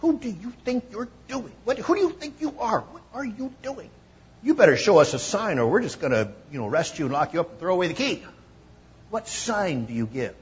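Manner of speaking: high-pitched indignant mock voice; mocking challenge. Jews demand a sign from Jesus, indignant high mock voice.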